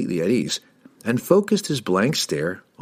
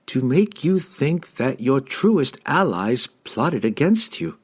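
slow, higher-pitched dazed servant; feigned entranced halfling; 6 semitones higher, slower than usual. A narrator's reading. Halfling fakes being charmed for the wizard, slow and dazed. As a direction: answer slowly as if under a spell.

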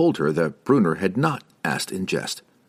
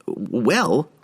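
higher, hesitant wizard; stammering; 6 semitones higher than usual. A narrator's reading. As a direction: falter on the opening sound. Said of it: "Harkle stammered".

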